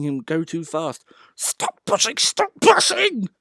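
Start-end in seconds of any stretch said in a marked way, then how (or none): 1.4-2.2 urgent plea. A narrator's reading. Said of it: "he hissed". 2.2-3.3 louder plea. A narrator's reading. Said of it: "he hissed".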